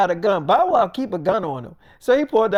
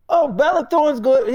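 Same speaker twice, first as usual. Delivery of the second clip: higher, perked-up approval; retold friend suddenly won over; approving; 4 semitones higher, 3 dB louder than usual. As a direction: perk up in hearty agreement. Friend perks up at her name.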